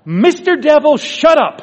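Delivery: loud, high outburst at the devil; retold shout. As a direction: shout it out like a sudden rebuke. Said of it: "he shouts out loud".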